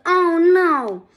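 high, loud wail; a mild wail, close to tears. Acted. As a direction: cry out in dismay. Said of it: "it wailed".

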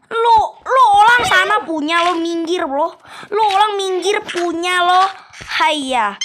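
hammed-up Chinese-Indonesian accent, high and loud; mock Chinese-Indonesian accent. Shooing the panda off in a mock Chinese-Indonesian accent. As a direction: play a pushy Chinese-Indonesian shopkeeper.

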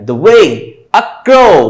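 light "the" and "a", long pushed "way" and "crow"; stress on WAY, CROW. Shown as a demonstration. Teacher reading the line as iambs, "way" and "crow" stressed. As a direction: lilt it weak-strong, leaning on "way" and "crow". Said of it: "ऐसे बोला गया".

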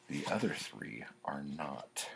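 low whispered tease; whispering. Real, not acted. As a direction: whisper it like a secret. Teasing poem game aside.

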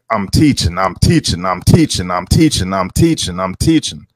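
a hint of a droning know-it-all; mock preachy teacher. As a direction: chant it repetitively, mocking self-important teachers. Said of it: "the energy is like".

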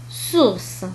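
"سورس" with voiceless s at both ends; S as seen. Shown as a demonstration. Teacher showing the first case, plain s in "سورس". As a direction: say "سورس" with ordinary hissed s. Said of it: "ينطق بطريقة عادية كحرف سين".

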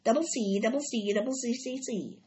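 a gander's odd voice rattling off letters; gander spelling. Acted. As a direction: spell it out like a proud, muddled goose. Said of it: "said the gander".

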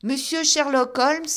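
high, loud, rising call. A narrator's reading. Narrator naming Holmes to the old man, loud call. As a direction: call the name up to the window. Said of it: "commençai-je".

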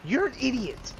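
angry yell. Real, not acted. Yelling at teammate in game.

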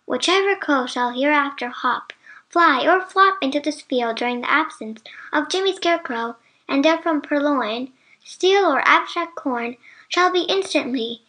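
measured reading of a mock-solemn notice; deliberate, ceremonious announcement; formal proclamation. A narrator's reading. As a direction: read it out like an official decree. Reads out Santa's written notice.

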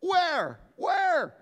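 urgently hunting for the thing; eager searching. Retold or imitated. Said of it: "I'm going".

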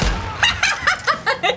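high laugh bursting out; burst of laughter. Real, not acted. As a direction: laugh hard at yourself. Laughs at own blunder.

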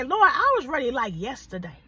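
preacher urging viewers to say it out loud; say it with your chest. Shown as a demonstration. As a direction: say it like you mean it. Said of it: "Say it like you mean it".

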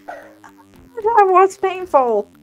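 drawn out, very slow; weary drawl. Real, not acted. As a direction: sigh it out, exhausted. End of hard level.

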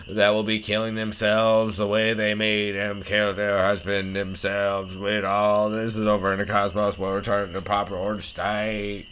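measured, declaimed diary voiceover; solemn diary writer. Acted. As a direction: read it as a vow, in character.

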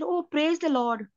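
mildly relieved, slow exclamation; a touch of grateful relief, drawn out. Acted. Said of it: "he said in relief".

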